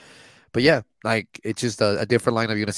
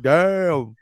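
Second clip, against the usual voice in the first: impressed damn; 6 semitones higher, 6 dB louder than usual. Retold or imitated. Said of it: "I was like".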